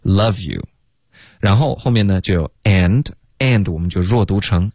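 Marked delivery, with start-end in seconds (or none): 0.0-0.6 "love you" linked as luh-view; V leading into you. Shown as a demonstration. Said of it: "前面只是一个V的音先".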